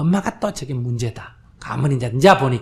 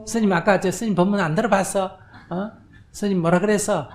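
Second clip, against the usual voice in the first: higher, louder mock lecturing; mock scolding; 6 semitones higher, 4 dB louder than usual. Child lectures her mother about the dharma, mock-scolding. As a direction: ham up a preachy know-it-all. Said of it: "이런 소리 하면 안 돼".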